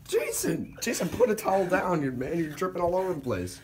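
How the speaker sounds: high, loud scolding shout. Real, not acted. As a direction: yell at him to stop dripping. Scolding dripping friend.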